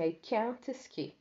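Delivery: "can't" drawn out slowly, falling at the end; slow model sentence. Shown as a demonstration. Teacher reading the negative example to students, slow. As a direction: spell it out in sound, slowly. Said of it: "Tá escrito assim".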